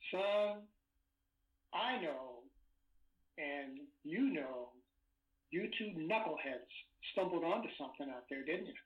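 imitated Louisiana drawl, drawn out with pauses; lightly put-on Louisiana agent, measured and knowing; Louisiana accent. Agent pressing a bedridden witness about what he saw, Louisiana accent. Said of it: "he had this Louisiana accent".

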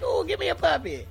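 mock begging. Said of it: "you're like".

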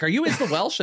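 high, imitated "Is the Welsh" as one name; botched name. Imitating a player who misread his Twitter handle, botched name. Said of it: "did say my name completely incorrect".

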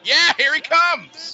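high, loud, drawn-out call; excited announcer. Pretend.

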